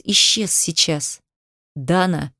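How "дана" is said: demanding call. A narrator's reading. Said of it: "требовательно позвал он".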